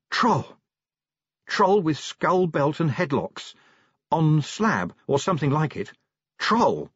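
urgent barked words; barking. Acted. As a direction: bark it out like a dog. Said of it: "Angua was almost barking".

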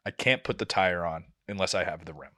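low, softened sympathetic voice. Retold or imitated. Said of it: "with as much sympathy as she can have".

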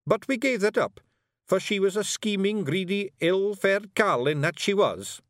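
high Scots grumbling; indignant Scottish Feegle. A narrator's reading. Rob telling Miss Level about the scheming Queen, indignant. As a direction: condemn her in a high, emphatic Scots voice.

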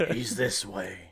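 lightly put-on bad English accent; a hint of a hammy English tracker; horrible English accent. Host imagines tracker in the jungle, bad English accent. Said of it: "he has a horrible English accent".

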